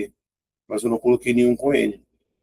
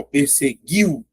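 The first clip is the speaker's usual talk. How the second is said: PERSEGUIU drawn out, strong I falling into a weak U; 3 semitones higher, much slower than usual. Shown as a demonstration. Teacher shows I strong and U weak, stressed ending of PERSEGUIU. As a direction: lean on the I of the last syllable in "perseguiu". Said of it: "A letra I é forte".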